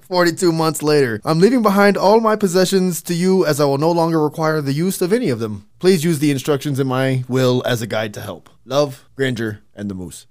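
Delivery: loud hammed-up Canadian note reading; loud mock Canadian reading. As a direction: read the letter like a Canadian. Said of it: "sounded Canadian".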